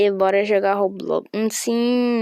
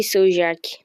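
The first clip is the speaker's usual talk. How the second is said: whisper; 2 semitones lower than usual. Pretend. Greeting in whisper.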